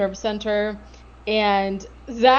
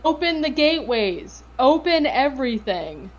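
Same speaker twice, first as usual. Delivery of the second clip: higher-pitched retold yell, not full volume; half-hearted yell in a raised pitch; mock yelling; 4 semitones higher than usual. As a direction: imitate him calling out dramatically without really shouting. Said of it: "he starts yelling".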